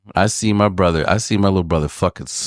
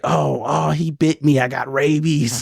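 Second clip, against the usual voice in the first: higher, panicked mock cry; mock scream; 6 semitones higher, slower than usual. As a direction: wail it lightly, imitating a bitten victim. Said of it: "he screamed it".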